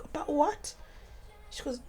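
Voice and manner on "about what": whispered question. Retold or imitated. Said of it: "I was like".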